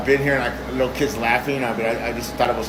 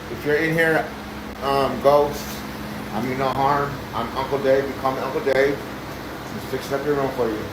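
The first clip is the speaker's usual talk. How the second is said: reassuring; 2 semitones higher than usual. Real, not acted. Reassuring the ghost of a child.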